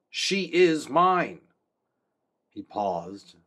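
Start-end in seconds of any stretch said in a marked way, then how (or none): 0.1-1.4 loud, slow, high claim of ownership; fierce possessive. A narrator's reading. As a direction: growl it like the old tyrant king. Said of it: "looked like Haggard".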